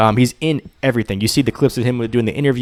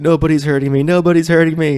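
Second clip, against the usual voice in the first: raised, hammed-up voice; mock cyclops; 7 semitones higher, 4 dB louder than usual. Friend voicing the Cyclops, raised and hammed-up. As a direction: play the blinded giant insisting. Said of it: "He's like".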